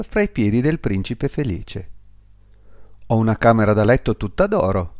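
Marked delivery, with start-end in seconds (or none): none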